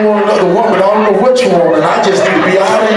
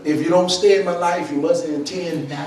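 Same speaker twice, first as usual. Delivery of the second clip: softer, lower, intimate sermon talk; quiet low preaching; 4 semitones lower, 7 dB quieter than usual. Acted. Preacher speaking softly to the room about quitters. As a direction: pull them in close, speak it low.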